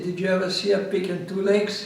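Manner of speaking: chuckling through the line; a laugh breaking into the retort; laughing punchline. Retold or imitated. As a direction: deliver the joke while laughing. Retold joke to the lady.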